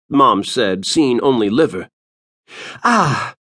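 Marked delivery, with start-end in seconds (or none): 2.8-3.3 put-on hissing old seer. A narrator's reading. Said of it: "the woman hissed".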